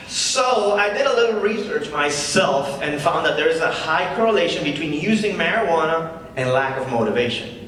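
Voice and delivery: lightly voiced comedy-club patter; stand-up comic. The comic opening his set to the crowd, casual comic patter. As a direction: work the crowd with an easy opener.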